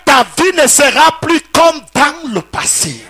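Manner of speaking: laughing shout of the promise. Acted. Preacher proclaiming to the congregation, laughing shout.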